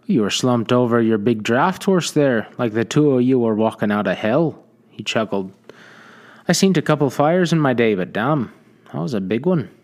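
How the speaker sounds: a lightly voiced hearty trader, chuckling through it; a friendly old trapper spinning the tale; cheerful frontier trader. Trader telling the dazed survivor how he found him, amused.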